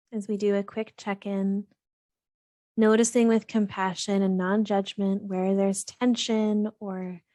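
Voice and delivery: calm, even meditation guidance with long pauses; guided meditation. Real, not acted. Host guiding listeners to settle and breathe, calm meditation voice. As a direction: gently lead listeners through breath and body, unhurried between phrases.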